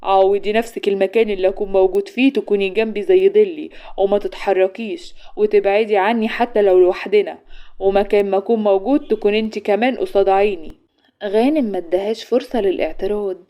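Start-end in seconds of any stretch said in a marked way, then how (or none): 0.0-10.7 forceful. Acted. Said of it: "وقال لها بقوة".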